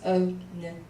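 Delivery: slow, letter by letter; slow sounding out. Shown as a demonstration. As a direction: sound each letter out slowly. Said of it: "you have to make a sound for the N".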